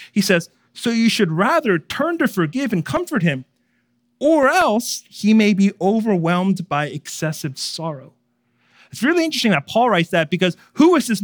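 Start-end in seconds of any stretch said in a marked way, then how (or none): 0.7-8.1 concerned voice. Acted. Paul urging the church to comfort the sinner, concerned. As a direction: read it as a worried apostle. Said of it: "he writes in a concerned voice".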